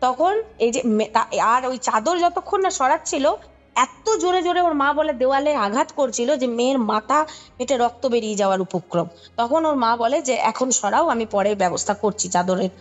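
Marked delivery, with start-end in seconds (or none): none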